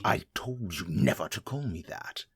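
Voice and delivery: whispered warning; angry whisper. Acted. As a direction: hiss it through clenched anger.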